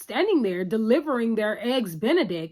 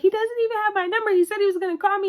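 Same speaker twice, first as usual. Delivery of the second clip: higher and fast, incredulous rant; quick, high, exasperated complaint; exasperated disbelief; 9 semitones higher, faster than usual. Retold or imitated. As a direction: spell out how absurd it is. Carrie voiced, exasperated.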